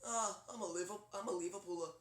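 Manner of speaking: lightly done low Liverpool accent, like a musician's. Shown as a demonstration. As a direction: aim for a droopy Liverpool accent. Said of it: "like, really low".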